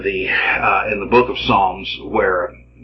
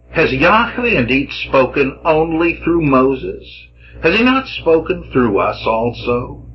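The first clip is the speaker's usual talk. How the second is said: indignant challenge; 7 semitones higher than usual. Acted. Voices Miriam and Aaron's complaint.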